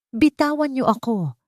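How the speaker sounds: high mock yell; drunk man's shout. Drunk husband yelling at the guards, mock yell. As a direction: yell to be let go. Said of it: "Sigaw ng lalaki".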